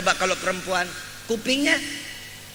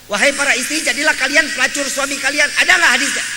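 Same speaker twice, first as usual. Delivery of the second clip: louder, raised voice of a curious asker; questioner reading it out louder; 2 semitones higher, 7 dB louder, faster than usual. Retold or imitated. Congregant asking the kiai about a hadith, louder. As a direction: read it out like someone challenging the kiai. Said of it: "Kiai, ada nggak hadis".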